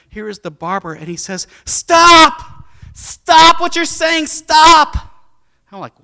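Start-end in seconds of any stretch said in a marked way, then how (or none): 1.6-5.0 high, loud shout of stop; shouted, urgent stop; retold yell. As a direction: yell it like you're cutting someone off. Barber cuts in, yelling stop.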